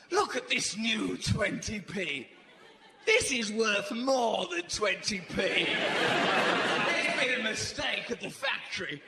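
slow, lightly acted childish marvelling; a touch of a kid awed by treasure; childlike wonder. Regressed to a child over new coins, childlike wonder. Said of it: "recede to the mentality of a child".

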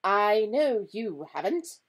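slow, high, loud concession; concede, half exasperated and half admiring. A narrator's reading. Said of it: "sounding half exasperated and half admiring".

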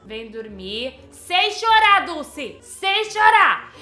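loud, high, desperate pleading; a mother cracking under a crying baby; overwhelmed mom pleading. Acted. Begging baby Dulce to stop crying, loud and frantic.

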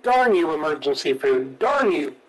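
words stretched by a yawn. Real, not acted. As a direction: say it through a big yawn. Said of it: "You had to make me yawn".

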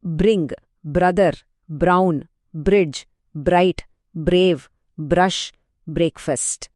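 బ్రింగ్ with బ and ర glided together; smooth br blend. Shown as a demonstration. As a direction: say each బ్ర word as one sound. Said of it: "ఆ blended సౌండ్ని గమనించండి". (బ్ర మిశ్రమాన్ని కలిపి ఒకే శబ్దంగా పలకడం)

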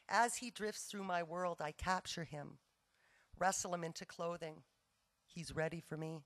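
measured poem recital with pauses between phrases; poetry reading. Acted. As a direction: read each line out, letting the phrases fall and rest. Reads a second poem aloud.

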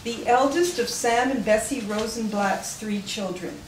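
measured read-aloud with falling sentence ends; formal tribute read from the page; formal biography reading. Real, not acted. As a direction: read a memorial biography to an audience, clearly phrased. Reads a written biography aloud.

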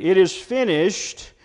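mild note of triumph, firmly declared; quoted declaration of victory; victorious. Retold or imitated. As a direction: proclaim it as a victory, slightly lifted. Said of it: "that one of victory".

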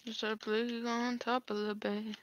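slow, soft ominous warning; dramatic slow voice. Acted. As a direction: drag it out like a movie line. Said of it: "That probably sounds so cringy".

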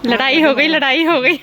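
loud singsong tease; dramatic loud aunty. Real, not acted. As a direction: announce the fight loudly. Teasing announcement of a quarrel.

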